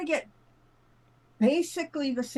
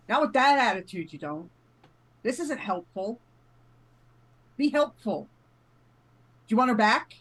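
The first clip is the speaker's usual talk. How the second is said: stern scolding; 5 dB louder than usual. Acted. Scolding voice from the pocket.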